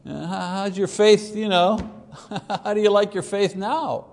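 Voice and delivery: mocking laugh.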